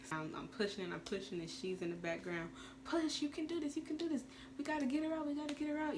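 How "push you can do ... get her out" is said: high-pitched coaching nurse, urging; mimicking the nurse urging her to push; imitating the coaching nurse. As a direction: cheer her on like a nurse at the bedside. Nurse coaching during pushing.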